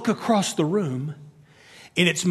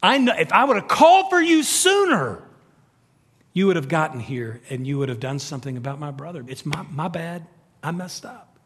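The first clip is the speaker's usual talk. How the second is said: regretful Martha. Retold or imitated. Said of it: "She, it's regret".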